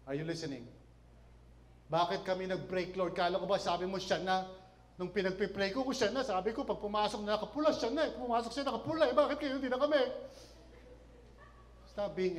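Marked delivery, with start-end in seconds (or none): 1.9-10.0 rising, increasingly indignant complaint to God; mock angry prayer. A jilted believer protesting to God over a breakup, mock indignant. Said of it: "can be angry with God".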